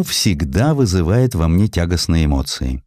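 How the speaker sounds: ordinary delivery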